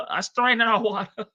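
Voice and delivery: repeats "strain" through a laugh. Shown as a demonstration.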